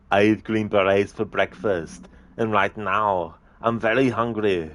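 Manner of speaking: put-on slow, heavy Austrian-accented Arnie threat; lightly done Schwarzenegger menace, slowed right down; Arnie impression. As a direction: loom over him with a slow Arnie boast. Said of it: "the Arnie movie scene impression".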